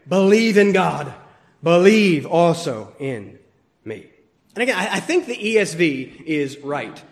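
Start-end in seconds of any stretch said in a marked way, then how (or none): 0.1-4.1 "Believe in God. Believe also in me" both as firm orders, the second slow; two orders, measured and firm; double command. Shown as a demonstration. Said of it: "Double command".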